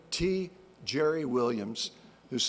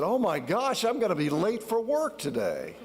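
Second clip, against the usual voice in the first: mock panic; 6 semitones higher than usual. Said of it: "I woke up in a panic this morning".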